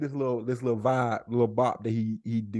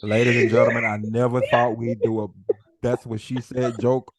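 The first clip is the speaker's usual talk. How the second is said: lower, measured announcement; mock announcer; 3 semitones lower than usual. Host telling listeners about the joke, mock announcer. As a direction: address the audience like a formal host.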